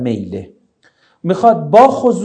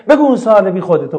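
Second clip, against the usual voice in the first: a touch of scorn, louder on بگو; mock rude order; 2 semitones higher, 5 dB louder, faster than usual. Shown as a demonstration. Teacher imitating a rude reply to a student's question, mock dismissive. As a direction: brush the student off, half-hearted and dismissive.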